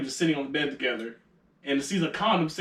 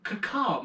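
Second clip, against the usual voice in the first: higher-pitched mock caw; imitated bird call; 5 semitones higher, 3 dB quieter than usual. Storyteller repeating his friend's useless warning, mock bird call. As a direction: deliver the crow signal deadpan. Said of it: "looked me dead in my face".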